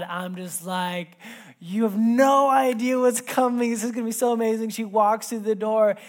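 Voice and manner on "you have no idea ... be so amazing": high, loud, bursting with suspense; barely holding in the big surprise; excited dad. Retold or imitated. Dad can't wait for surprise.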